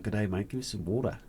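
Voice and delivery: light Australian cartoon accent; a hint of an Aussie plant talking. Cartoon plant asking for water, lightly Australian. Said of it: "and he's Australian".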